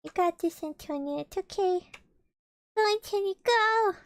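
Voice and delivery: high, loud cheering encouragement; rooting for Antonia to make it. Real, not acted. Cheering a friend on.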